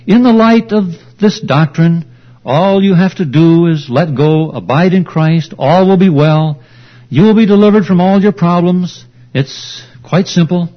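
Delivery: mock quote of opposing view. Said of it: "all the apostles should have said".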